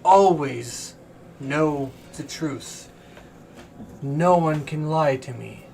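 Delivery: chained celestial diva. Acted. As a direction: speak as a weary, captive angel.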